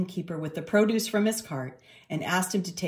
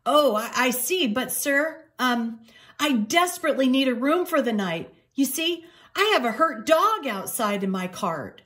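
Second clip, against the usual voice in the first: pleading cat voice; 7 semitones higher, 4 dB louder than usual. Acted.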